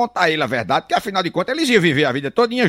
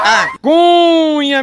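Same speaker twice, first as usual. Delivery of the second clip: stretched-out high call of "A Cunha"; catchphrase shout; 9 semitones higher, 6 dB louder, much slower than usual. Acted. Comedian opening a joke with a long drawn call. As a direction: belt out "Cunha" slow and high.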